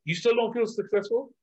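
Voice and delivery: incredulous question. Retold or imitated. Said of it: "And I'm like".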